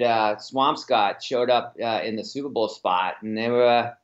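chatty Boston accent, talking like a local. Shown as a demonstration. Guest gives the host his best Boston accent on request, Boston accent. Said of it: "Give me your best Boston accent".

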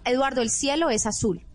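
calm falling statement tune; matter-of-fact statement. Shown as a demonstration. Coach showing a calm, sure instruction tone. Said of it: "estoy usando esa entonación".

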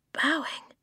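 high whispered question. A narrator's reading. Eska questions Flint about the bears, whispering. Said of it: "Eska whispered".

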